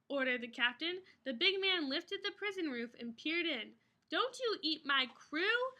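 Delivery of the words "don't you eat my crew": a touch of defiant shout; mildly defiant warning; mild mock shout. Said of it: "shouted the captain".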